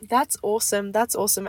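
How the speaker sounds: stuffy, congested voice. Real, not acted. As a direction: speak through a blocked nose. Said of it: "I'm a little bit congested".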